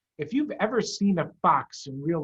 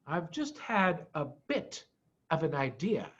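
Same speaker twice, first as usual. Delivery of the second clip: Mister Fox careful; 4 dB quieter than usual. Acted. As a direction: say it carefully, holding back. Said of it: "said Mister Fox carefully".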